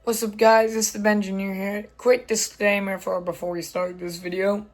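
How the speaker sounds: hoarse, strained lost voice. Real, not acted. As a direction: speak through a lost voice. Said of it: "I've lost my voice".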